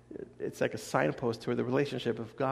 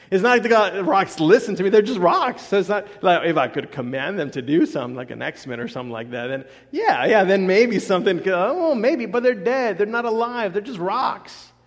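louder, higher, emphatic preaching; 6 semitones higher, 8 dB louder than usual. Real, not acted. Preacher to the congregation about rocks, emphatic and louder. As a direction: drive home that the rocks are dead.

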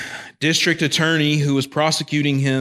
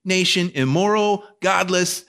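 voicing indignant Jonah; 6 semitones higher than usual. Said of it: "He's like".

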